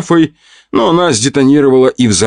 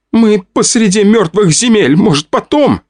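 exasperated, pitched way up; high scolding; 11 semitones higher than usual. A narrator's reading. Vika scolds the girls in a high exasperated voice. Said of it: "выругалась Вика".

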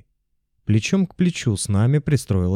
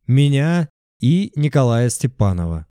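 shouted into megaphone; 4 semitones higher than usual. A narrator's reading. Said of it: "выкрикнул я в мегафон".

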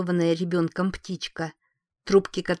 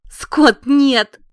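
loud, high desperate cry; anguished cry; 7 semitones higher, 12 dB louder than usual. Acted. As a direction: cry out in panic. Wife cries out at dying husband. (отчаянный крик)

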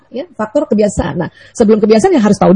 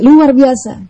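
"Luar biasa" with stress on "luar" and a stretched end; enthusiastic praise; 2 semitones higher, much slower than usual. Shown as a demonstration. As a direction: sell "Luar biasa" with energy. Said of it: "lebih tinggi lagi".

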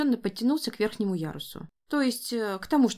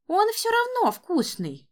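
put-on child's voice; 12 semitones higher than usual. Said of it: "сказал старший внук".

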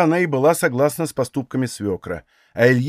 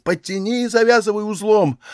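retold shout; 6 semitones higher than usual. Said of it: "и шумит".

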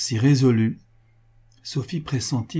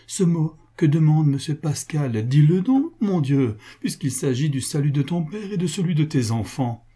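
higher, urgent entreaty; anguished outcry; 6 semitones higher, 4 dB louder than usual. A narrator's reading. Sophie begging her husband for the children's sake, anguished outcry. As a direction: press him anxiously to speak. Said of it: "s'écria Sophie dans une angoisse inexprimable".

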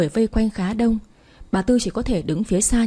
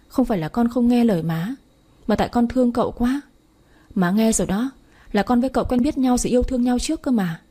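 choked with tears. Acted. Daughter begs her mother, mildly tearful. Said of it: "nói trong tiếng nghẹn ngào".

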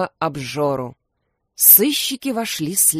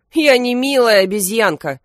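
offended; 5 semitones higher, 6 dB louder than usual. A narrator's reading. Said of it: "обиделся Крембо".

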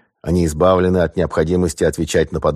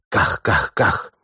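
imitated gunshots; 3 semitones higher, much slower than usual. A narrator's reading.

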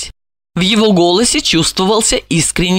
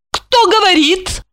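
slow, high, strict ask; stern question; 12 semitones higher, slower than usual. A narrator's reading. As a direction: demand who it is, coolly stern. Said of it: "строго спросила она". (строго, медленно спросить)

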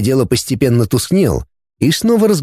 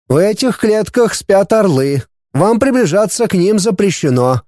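languid, raised sultry voice; 6 semitones higher than usual. A narrator's reading. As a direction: draw it out languidly. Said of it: "томным голосом предупредил мистер Вингли".

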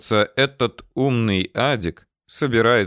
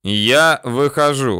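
slow, raised, higher shout; shouting back; 4 semitones higher, 4 dB louder, slower than usual. A narrator's reading. Surveyor announces himself to the bandits, shouting back. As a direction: call it out slowly as a warning. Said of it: "в ответ кричит Горохов".

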